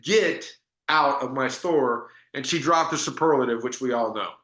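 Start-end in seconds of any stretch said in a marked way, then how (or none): 0.0-2.1 slow, drawn-out order to leave; retold emphatic order, each word given time; emphatic dismissal. Shop owner throwing out a salesman, emphatic. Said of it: "Emphatic that she did not have time".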